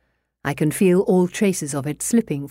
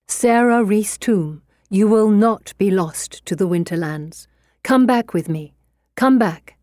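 urgent pleading; 3 semitones higher than usual. Acted. Eugenia pleads with possessed Sarah.

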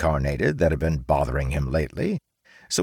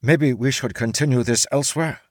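higher, trying to steer away; awkward samurai; 7 semitones higher than usual. A narrator's reading. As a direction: samurai nervously suggesting they leave. Samurai tries to escape.

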